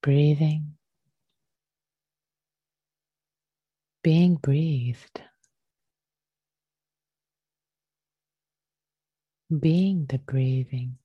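unhurried meditation teacher, leaving long pauses; guided meditation. Real, not acted. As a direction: gently guide them into the breath, phrase by phrase.

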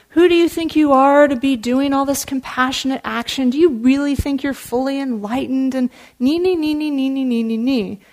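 a hint of a needling, nagging tempter; lightly voiced whiny taunt trailing into nee nee nee; nagging Mara voice. Mara taunting the Buddha, a mild nagging voice. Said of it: "that voice".

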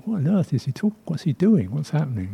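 a puzzled listener hearing clicks; mock confusion. Listener confused by click sounds, mildly puzzled. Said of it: "quite confusing".

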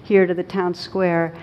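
the policeman losing patience, not fully in earnest; infuriated policeman. Acted. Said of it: "policeman gets really infuriated".

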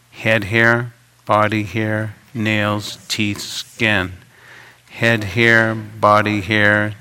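measured, even recitation on one pitch; group recitation. Shown as a demonstration. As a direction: recite the list evenly, pausing between words. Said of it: "let's begin with reciting these first five parts".

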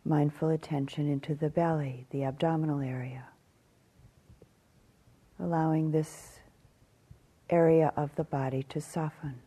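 calm meditation guidance with long pauses; measured phrases, spaced out by silence; guided meditation. Acted. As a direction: guide them gently through the body, leaving long silences.

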